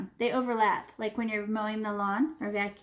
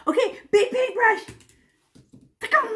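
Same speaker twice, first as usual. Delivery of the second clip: excited reveal; 11 semitones higher, 6 dB louder than usual. Real, not acted. Teacher excitedly presents brush.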